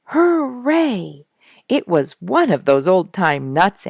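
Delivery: a high, loud burst of joy; excited cheer. A narrator's reading. Squirrel cheering at winning the old-time nut, excited. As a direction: cheer it like a squirrel who just won the prize.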